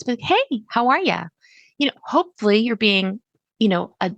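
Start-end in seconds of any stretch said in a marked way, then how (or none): 0.2-1.2 higher, friendly how-are-you; friendly greeting inflection. Shown as a demonstration. Customer greeting a teller at the bank, friendly lifted inflection. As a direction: greet them like a genuinely nice person. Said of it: "a different inflection to your voice".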